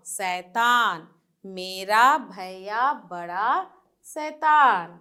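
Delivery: put-on slow sing-song children's poem read aloud; teacher reciting a nursery rhyme to pupils; poem recital. Shown as a demonstration. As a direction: chant each line to the class, slowly. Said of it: "ये कविता है एक".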